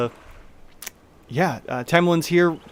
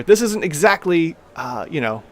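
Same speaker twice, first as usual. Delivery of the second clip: somewhat higher halfling voice, matter of fact; Tamili explaining; 3 semitones higher, 3 dB louder than usual. Acted. Halfling owner explaining the fish business, lightly voiced. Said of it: "gestures to everyone behind her".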